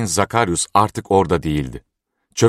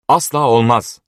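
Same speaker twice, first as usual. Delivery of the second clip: high, loud cry of refusal; young man refuses the bride deal, shouting; outcry; 6 semitones higher, 4 dB louder than usual. A narrator's reading. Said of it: "diye haykırdı Ober".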